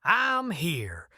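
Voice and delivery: soft trembling voice. Acted. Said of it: "a soft, trembling voice answered".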